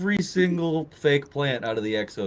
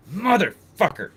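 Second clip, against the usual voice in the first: mock-angry curse, higher and drawn out; pissed off; 8 semitones higher than usual. Chief opens his office door on the prank, pissed off. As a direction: act out a slow, exasperated swear. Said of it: "he's just fucking pissed".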